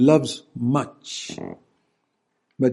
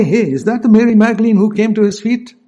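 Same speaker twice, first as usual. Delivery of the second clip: eager question; 8 semitones higher, 6 dB louder than usual. Pretend. Preacher imagines asking about Mary.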